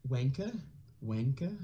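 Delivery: British accent tries. Shown as a demonstration. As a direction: test Wanker with a rising British lilt. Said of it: "Latina says wanker".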